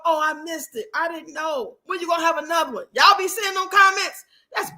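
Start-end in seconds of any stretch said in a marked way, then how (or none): 0.0-2.9 mocking fan voice. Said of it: "They act like when they finally roll up on".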